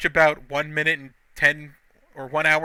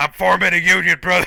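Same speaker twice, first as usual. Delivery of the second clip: rough, loud wrestler-style voice; 3 semitones higher, 6 dB louder than usual. Acting out a wrestling segment, replying to the boss: Hulk Hogan voice. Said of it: "in my Hulk Hogan voice".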